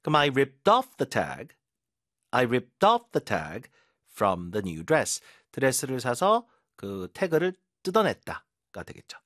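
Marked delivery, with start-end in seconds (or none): 0.2-3.7 "off" hit hard in a very slow "ripped off"; stress on off. Shown as a demonstration. Teacher drilling students, "off" stressed slowly. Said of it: "팍 뜯어내잖아요".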